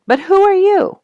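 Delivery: high squeaky curious mole voice; puzzled mole. Acted. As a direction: peer up blindly and ask. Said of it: "he said".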